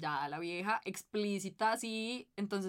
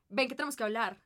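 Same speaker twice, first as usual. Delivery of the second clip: stern mom; 3 semitones higher, 4 dB louder than usual. Retold or imitated. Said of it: "fuego en los ojos".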